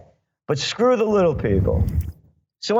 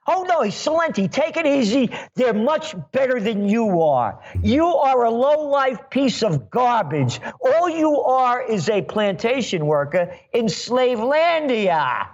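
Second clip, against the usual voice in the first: higher, gloating sneer of a smug banker; mocking bankster voice; 4 semitones higher than usual. Radio host mocks the banksters who scorn little people, in a higher gloating voice. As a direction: lord it over the little people, pitch raised. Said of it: "We're the Goldman Sachs gang".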